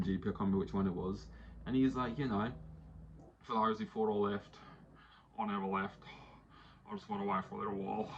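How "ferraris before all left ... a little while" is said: cool movie-hero delivery; Daniel Ricciardo. Retold or imitated. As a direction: drop each line with a dramatic pause. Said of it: "speak as if he's in a Brad Pitt film".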